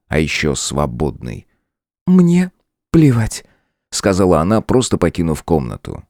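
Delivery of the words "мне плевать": голос демоницы. A narrator's reading. Демоница уходит.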